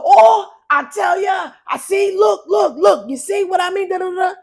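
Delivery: high, loud Trinidadian accent, mock crying and shouting; Trinidadian accent, playing the victim; Trini accent performance. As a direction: ham it up in a Trini accent, wailing. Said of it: "this part need a performance here".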